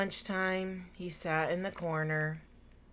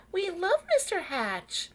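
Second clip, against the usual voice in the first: higher, louder, eager insisting; insistent; 12 semitones higher, 6 dB louder than usual. Acted. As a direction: protest it with eager warmth. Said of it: "insisted Mister and Missus Dunwoody".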